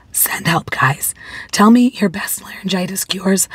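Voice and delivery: ordinary delivery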